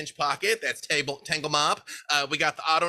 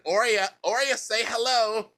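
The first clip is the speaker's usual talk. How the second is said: higher, coaxing call to a shy friend; coaxing host; 8 semitones higher than usual. Acted. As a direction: coax her out like a proud parent. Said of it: "she's like".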